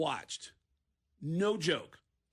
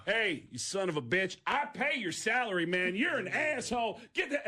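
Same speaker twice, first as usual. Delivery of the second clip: indignant rant; 4 semitones higher than usual. Retold or imitated. Buddy berates the cop.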